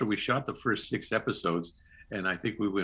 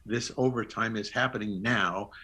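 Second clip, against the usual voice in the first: formal notification. Retold or imitated. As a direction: spell it out deliberately to the studio. Re-enacting phone call to studio.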